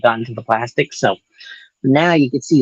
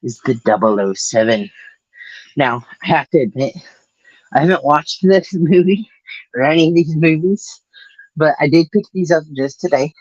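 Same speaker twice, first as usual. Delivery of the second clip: winded after running; speaking between breaths. Real, not acted. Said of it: "sorry, I'm out of breath".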